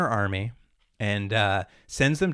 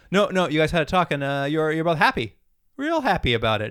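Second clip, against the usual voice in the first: slightly raised bad-liar voice; unconvincing liar; 4 semitones higher than usual. Psychic kid covers for the plotter, lamely reassuring. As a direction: reassure him haltingly and unconvincingly. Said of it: "Everyone can't lie to Maximus".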